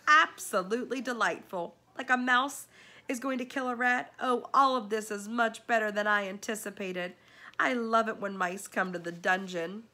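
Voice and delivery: delighted rat lord cheering a fight; gleeful villain rat. Acted. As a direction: savour every word like a treat.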